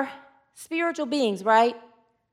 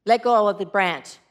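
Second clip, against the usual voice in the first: lightly voiced God, lower and calm; booming voice; 6 semitones lower than usual. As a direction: ask gently from above. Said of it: "It's a booming voice".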